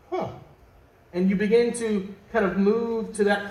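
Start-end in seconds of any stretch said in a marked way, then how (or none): 0.1-0.3 a short curious huh, ears perking up; a quick interested huh like eavesdropping. Retold or imitated. Eavesdropper catching something interesting, short curious huh. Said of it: "you just kinda go".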